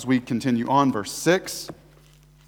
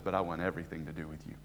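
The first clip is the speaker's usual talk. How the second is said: much softer, hushed and tender; tender voice of God; 10 semitones lower, 14 dB quieter, faster than usual. Acted. Preacher voicing God's answer to the sinner, hushed and tender. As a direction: speak it like a gentle promise.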